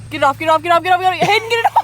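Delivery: panicked shrieking to get it off; frantic high scream about a bug; phobic panic. Real, not acted. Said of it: "Hate bugs".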